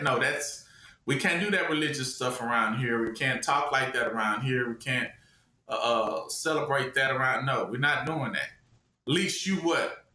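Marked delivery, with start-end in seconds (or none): 0.0-8.5 low-pitched imitation of a refusing official; low, halting mock refusal; mock disapproval. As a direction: turn them down in a low, mock-stern voice. Acting out refusal of religious talk.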